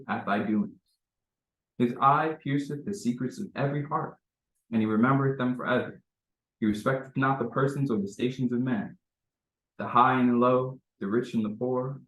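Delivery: measured, solemn reading of sacred text; formal scripture reading. Acted. Reading holy scripture aloud to the gathered congregation, solemn and measured.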